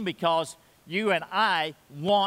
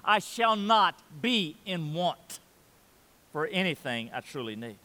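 slow solemn quote. Retold or imitated. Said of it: "He says".

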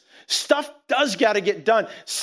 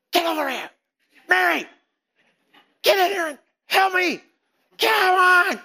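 angry yell; 10 semitones higher than usual. Retold or imitated. Martha yelling at her sister Mary from the kitchen, high angry shout. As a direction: bark it across the house, then shout the last bit.

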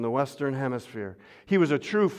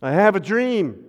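ringing oratorical quote, raised a little; quoting King's dream; 5 semitones higher, 4 dB louder than usual. Retold or imitated. Pastor quoting the famous dream speech to the congregation, ringing. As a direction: lift it like the famous speech, louder. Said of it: "How about Martin Luther King?".

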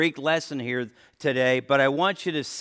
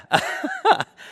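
short laugh; 5 dB louder than usual. Real, not acted. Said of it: "Did that scare anybody?".

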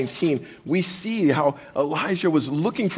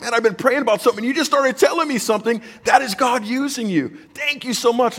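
higher, fast, tumbling out; excited gratitude; 5 semitones higher than usual. Retold or imitated. Pastor retelling thanking a friend, fast and excited. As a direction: rush it, overjoyed someone answered your prayer.

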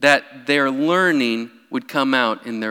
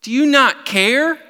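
higher, louder accusing question; rebuking cry; 11 semitones higher, 6 dB louder than usual. Retold or imitated. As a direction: throw the rebuke at him. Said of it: "This is a rebuke".

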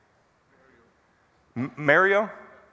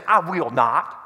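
little southern drawl, lower and stubborn; defiant southern accent; 4 semitones lower, slower than usual. Retold or imitated. Father imitates little daughter refusing to come out, defiant southern accent. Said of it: "in this little southern accent".

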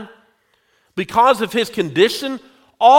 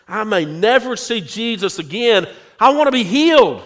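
urgent plea; 3 semitones higher than usual. Acted. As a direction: plead it, rising to a quick outburst. Blind man's desperate plea, acted.

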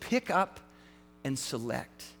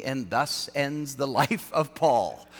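mock doom; 4 semitones lower, slower than usual. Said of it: "I'm sure he's thinking".

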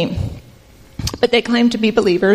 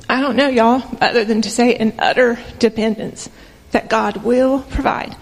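emotional; 2 semitones higher than usual. Real, not acted. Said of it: "this is probably where I get emotional".

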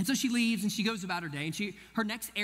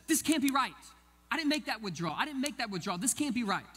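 higher-pitched, insistent protest; indignant complaint; 5 semitones higher than usual. Retold or imitated. Older woman disputing a withdrawal with the teller, indignant. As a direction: act out a customer insisting there's been a mistake.

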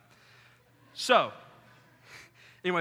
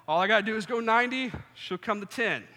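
fast, higher, louder self-pep talk; 7 semitones higher, 5 dB louder than usual. Retold or imitated. Psyching himself up in the mirror, fast and excited. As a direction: pump yourself up quickly.

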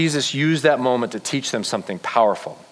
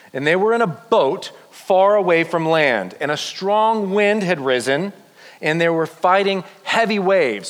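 higher-pitched, measured story narration; dramatic Bible reading; 5 semitones higher than usual. A narrator's reading. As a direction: read the storm scene with rising drama. Reads Bible story aloud to group.

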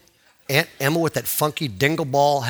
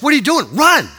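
high, urgent fatherly yell; dad urging runner; 9 semitones higher, 5 dB louder than usual. Retold or imitated. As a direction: holler at the boy to get moving. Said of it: "my dad goes".

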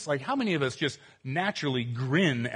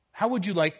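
salesy pitch voice; infomercial voice; 5 semitones higher, 4 dB louder than usual. Acted. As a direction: sell it like a TV ad. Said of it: "I sound like an infomercial".

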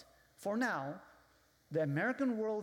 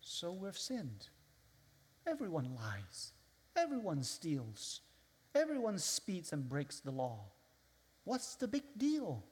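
dismissive shrug. Retold or imitated. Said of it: "And they say".

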